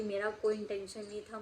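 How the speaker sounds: softly begging forgiveness; pleading apology. Retold or imitated. Schoolgirl to the angry mother, softly pleading. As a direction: plead with the aunt, voice dropping. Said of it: "इतना गिड़गिड़ा रही थी".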